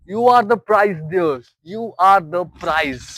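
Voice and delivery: emphatic. Real, not acted. Stressing key point.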